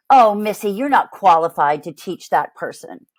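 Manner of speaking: a parent's memory belittling her, mildly patronizing. Retold or imitated. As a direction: talk down to her like a disapproving parent. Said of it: "that kind of patronizing".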